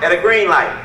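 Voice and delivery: GREEN stressed, called out; emphatic call-out. Shown as a demonstration. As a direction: punch the word green. Trick question to the audience.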